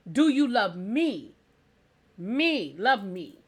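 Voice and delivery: "me" singled out and repeated; slow mock plea leaning on "me"; emphatic ME. Acted wife pleading, repeats ME.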